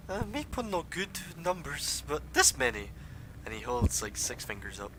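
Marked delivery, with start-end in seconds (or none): 0.1-2.9 high-pitched little kobold guide. Acted. Kobold guide answering how many are down here, high creature voice. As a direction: pitch it well up as a simple kobold.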